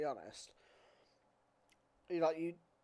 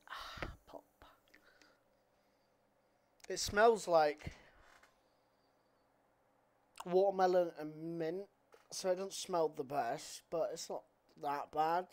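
bottle against lips, sniffing; muffled by shaker rim; talking into a cup; 4 dB louder than usual. Real, not acted. Seen 0: Shaker held against mouth and nose, sniffing; drinking comes after, at 14.4.

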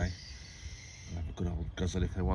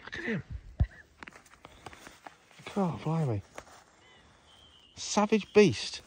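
giggly tickle attack; 10 semitones higher, 7 dB louder than usual. Real, not acted. Bird of prey attacking him.

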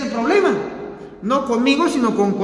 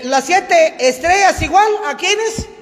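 loud call-and-response; 4 semitones higher than usual. Shown as a demonstration. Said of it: "pero fuerte y rápido".

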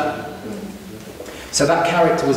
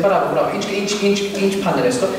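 put-on mum's Armenian accent; 4 semitones higher than usual. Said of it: "she said".

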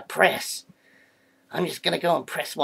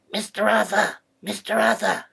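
calling out; 4 dB louder than usual. Acted. Calling someone for help.

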